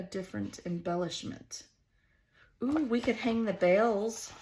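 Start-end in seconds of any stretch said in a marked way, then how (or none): 2.6-4.3 a slight Southern twang on "Ooh, we could hang the bales". Real, not acted. Crafter idly slipping into a light southern twang. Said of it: "that was a southern twang right there".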